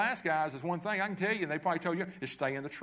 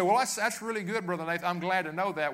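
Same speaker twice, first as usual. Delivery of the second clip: mock congregant reply; 4 semitones higher, 4 dB louder than usual. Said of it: "You say".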